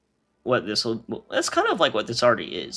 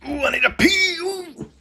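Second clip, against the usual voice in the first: urgent cry; 5 dB louder than usual. Real, not acted.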